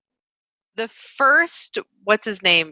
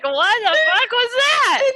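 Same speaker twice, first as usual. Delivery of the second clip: baffled disbelief; 13 semitones higher than usual. Retold or imitated. Stunned viewer reaction, laughing.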